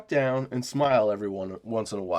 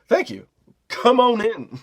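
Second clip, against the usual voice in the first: raised, mock-polite welcome; put-on customer-service courtesy; exaggerated politeness; 9 semitones higher, 5 dB louder, slower than usual. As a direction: play up the polite host, louder on the invitation. Retold polite reply to rude customer.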